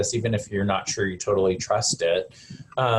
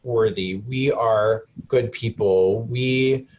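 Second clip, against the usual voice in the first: slow, tender; slower than usual. Shown as a demonstration. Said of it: "you say the same words over again".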